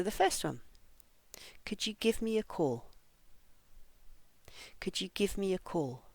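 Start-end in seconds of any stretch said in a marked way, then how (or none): 1.6-6.0 "give" and "call" stressed, small words light. Shown as a demonstration. Teacher models the phrase for learners, stress on "call". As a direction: stress "call", run "could you" together. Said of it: "I'm going to read the phrases".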